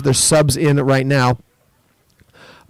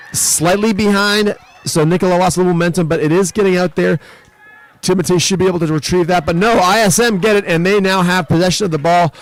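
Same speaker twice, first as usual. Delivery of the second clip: higher, quicker play-by-play; excited call; 5 semitones higher than usual. Real, not acted. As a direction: ride the action as it swings. Live call of a turnover.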